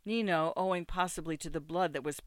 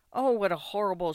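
louder exclamation of horror; horrified outcry; 3 semitones higher, 7 dB louder, faster than usual. A narrator's reading. Ida horrified by circling ravens.

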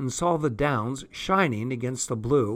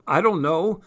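bitter; 5 semitones higher, 4 dB louder than usual. Acted. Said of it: "he said bitterly".

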